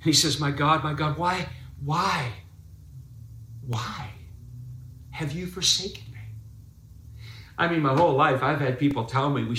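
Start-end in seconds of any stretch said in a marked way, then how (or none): 0.4-6.2 a touch of anguished outcry; lifted desperate cry. Retold or imitated. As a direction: lift the voice, pleading, rising to the final me. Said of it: "he lifts his voice".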